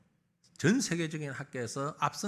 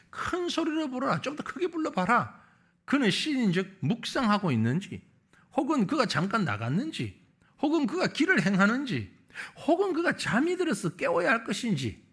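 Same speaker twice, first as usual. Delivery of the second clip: lightly taunting, pitched up at the start; mild mocking taunt; 3 semitones higher than usual. Elijah taunting the priests of Baal, mildly mocking. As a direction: read the prophet's jeer with a touch of sarcasm. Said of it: "엘리야가 비꼬면서 무슨 말을 합니까".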